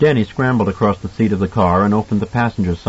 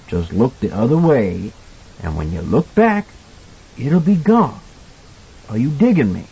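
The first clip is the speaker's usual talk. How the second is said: kindly cook advising; 3 semitones higher than usual. Acted. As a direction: coach the boy step by step, reassuringly. Voices Halloran advising Danny.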